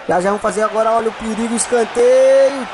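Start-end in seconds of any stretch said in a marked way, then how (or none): 1.5-2.7 stretched excited call. Acted. Calling a corner kick.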